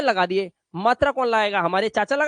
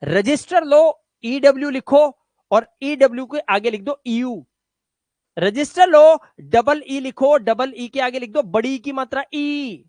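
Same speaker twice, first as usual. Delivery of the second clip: loud instruction; 4 dB louder than usual. Real, not acted. Teacher instructing class loudly.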